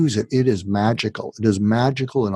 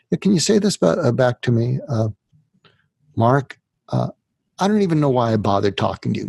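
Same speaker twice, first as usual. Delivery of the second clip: voicing a suicidal person; 3 semitones higher than usual. Shown as a demonstration. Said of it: "if you're saying this to a, a suicidal person".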